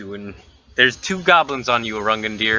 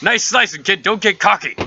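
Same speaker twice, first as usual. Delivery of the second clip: Gesh; 7 semitones higher, 3 dB louder than usual. Acted. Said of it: "Gesh turns to you, Paunch, and says".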